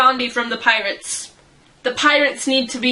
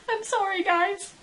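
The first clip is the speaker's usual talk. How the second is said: laughing apology; 8 semitones higher, 6 dB quieter than usual. Real, not acted.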